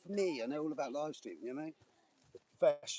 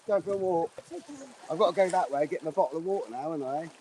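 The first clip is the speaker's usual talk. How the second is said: calling out; 9 semitones higher, 8 dB louder than usual. Real, not acted. Calling out to passers-by.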